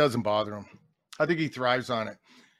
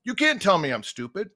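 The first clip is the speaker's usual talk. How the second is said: higher mock protest; retold indignant referee; 4 semitones higher, 3 dB louder than usual. Referee answers the coach who called him stupid, mock indignant. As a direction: imitate an affronted official.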